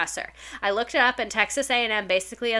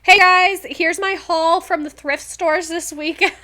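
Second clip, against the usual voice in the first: much higher, louder mock influencer greeting; hammed-up vlogger voice, the greeting loud, then slower; youtuber haul intro; 8 semitones higher, 7 dB louder, slower than usual. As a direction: play a teacher opening a thrift haul video. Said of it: "Imagine being a teacher and being like".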